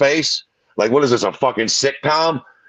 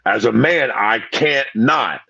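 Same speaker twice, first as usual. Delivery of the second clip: imitating Sean; 6 semitones lower than usual. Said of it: "he's like".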